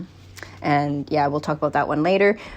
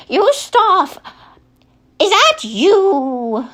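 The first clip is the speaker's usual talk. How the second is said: put-on much higher old lady voice calling from afar; old grandma; 3 dB louder, much slower than usual. Grandma calls for Yustov from downstairs, high old lady voice. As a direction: cry out like a forgetful old grandmother calling upstairs. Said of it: "Grandma comes up the steps and goes".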